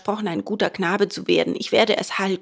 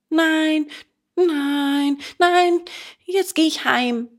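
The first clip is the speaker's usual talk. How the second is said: emphatic refusal; 5 semitones higher, slower than usual. A narrator's reading. Boy insists on going home, high emphatic refusal. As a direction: refuse harder with each word. Bengele refuses to wait longer.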